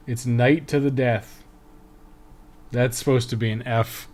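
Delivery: ordinary delivery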